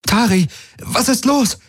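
very high, urgent call; alarmed, high-pitched question; calling over noise. A narrator's reading. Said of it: "rief sie über den Lärm".

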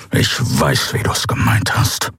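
tonlos gefaucht, wie ein Tier; fauchend. A narrator's reading. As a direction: die Worte ohne Stimme fauchen. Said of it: "fauchte er". (gereizt fauchend, fast ohne Ton)

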